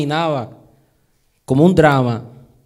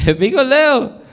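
said through a laugh, a bit louder; chuckling self-mockery; 7 semitones higher, 4 dB louder than usual. Shown as a demonstration. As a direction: laugh at the clumsy "Me pico el dedo".

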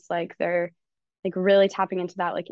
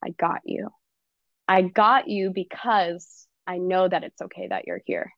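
tender self-reassurance. Shown as a demonstration. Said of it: "I can move on to".

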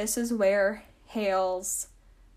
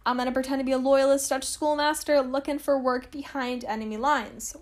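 mock Hale; 4 dB louder than usual. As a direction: sell the silly plan with gusto. So Hale was like.

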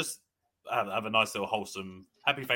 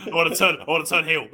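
loud and laughing, higher; 8 semitones higher, 12 dB louder than usual. Real, not acted. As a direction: laugh through the words. Teasing, loud laughter around it.

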